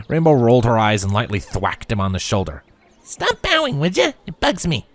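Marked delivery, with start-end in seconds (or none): 3.0-4.8 high, breezy teasing filly; lighthearted. A narrator's reading. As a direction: toss it off playfully. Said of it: "she said lightheartedly".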